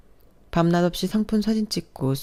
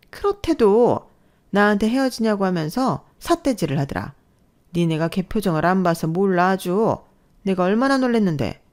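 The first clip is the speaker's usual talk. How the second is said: insistent mother-in-law; 4 semitones higher, 4 dB louder than usual. Acted. Mother-in-law insisting to her daughter, aggrieved. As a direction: insist she was wronged.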